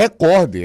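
recorde stressed on cor, re-CÓR-de; recorde: sílaba tônica cor; correct paroxytone. Shown as a demonstration. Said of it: "ela é uma paroxítona".

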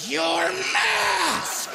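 high shrieking busybody yelling; the concerned citizen pouncing on the comic over his mask; shrill scolding lady. Acted. High screeching scold. Shape-shifting citizen yells at him.

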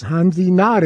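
Hansi Nod with a nasal Hansi, short clear Nod; careful German-style Hansi Nod; careful pronunciation. Shown as a demonstration. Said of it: "if you're pronouncing it right".

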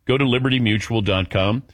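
smooth, scripted sponsor read. Acted. Host pitching car and home insurance to listeners, ad read. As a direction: sell it in measured, emphatic phrases.

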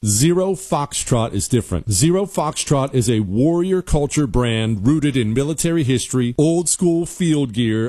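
scripted radio sponsor read; punchy, continuous sales pitch. Acted. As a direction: sell it like a host-read radio ad. Reads a sponsor ad.

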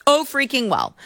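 sing-song dismissive shrug; high mock shrug. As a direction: toss it off high and breezy. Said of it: "So they're like".

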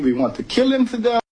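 voicing their threats with high-pitched alarm; imitating the extremists. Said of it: "They're saying".

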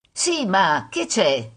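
put-on slow, dragged teenage reply; mildly put-upon, stretching the words; listless. Teenage son answering mother's call, listless.

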